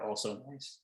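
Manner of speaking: hushed whisper aside; whispered, -10 dB quiet. Pretend. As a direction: drop to a whisper to the table. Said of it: "I wanna whisper".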